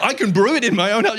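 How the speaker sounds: squeaky high with laughter; thrilled to brew at home; delighted. Retold or imitated. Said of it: "Hungarian people are like".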